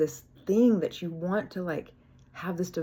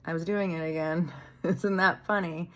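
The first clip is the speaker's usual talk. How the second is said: amused self-mocking groan. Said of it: "laugh at me and talk to God and be like".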